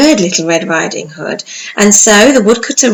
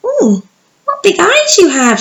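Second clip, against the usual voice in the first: lightly voiced girl; 12 semitones higher, 4 dB louder than usual.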